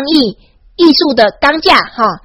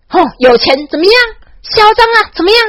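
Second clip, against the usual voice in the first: much higher, cocky jeer; arrogant swagger; 8 semitones higher than usual. Retold or imitated. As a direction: act as arrogant as you can. Arrogant boast about Taiwan's wealth. (嚣张地炫富，音调高)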